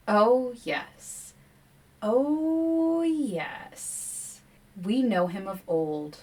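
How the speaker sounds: eerie forest voices. Acted. Forest voices coaxing the Queen to hand him over, eerie croon. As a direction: croon it like a greedy forest spirit.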